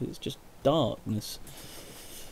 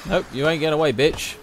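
shouting; 6 semitones higher, 9 dB louder than usual. Real, not acted. Chasing raider in gunfight.

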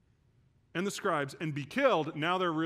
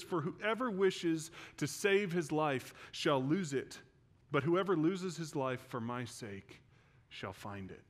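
slow scripture reading; slower than usual. Acted. Reads scripture slowly.

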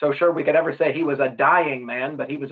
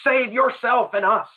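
absolute panic; 6 semitones higher than usual. Retold or imitated. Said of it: "there's absolute panic in his voice".

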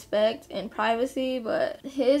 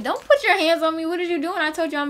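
higher-pitched indignant objection; acted-out alarm and annoyance, pitched up; retold protest; 5 semitones higher, faster than usual. Girlfriend telling boyfriend hands off, retold indignant protest. Acting out objection to being grabbed.

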